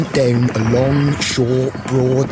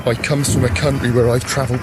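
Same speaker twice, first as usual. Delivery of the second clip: lightly voiced old Beelzebub reciting; mummers play Beelzebub; 4 dB quieter than usual. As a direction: declaim the rhyme as a folk figure.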